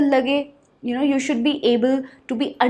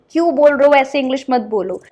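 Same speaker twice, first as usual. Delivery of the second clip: louder, irritated retort; annoyed native speaker; 2 semitones higher, 7 dB louder, faster than usual. Retold or imitated. Native listener scolding a learner, mock irritated. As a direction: scold the speaker for their English. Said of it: "but they get really कि".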